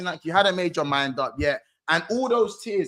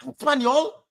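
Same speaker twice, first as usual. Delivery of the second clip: imagined Trent; 7 semitones higher than usual. Retold or imitated. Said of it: "I thought Trent was gonna be like".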